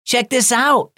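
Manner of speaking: high-pitched, excited call to friends; excited exclamation. A narrator's reading. Jack showing the boys his phone on the bus, excited. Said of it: "exclaimed Jack".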